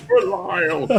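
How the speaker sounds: slow, high, swooping character voice; Deckard Cain. Acted. Imitating a game character's silly voice, slow and high. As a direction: stretch the name out ridiculously. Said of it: "his voice is so ridiculous".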